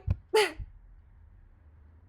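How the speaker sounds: sudden loud high burst of laughter. Retold or imitated. Recalling sitting with the rejection letter, loud burst of laughter.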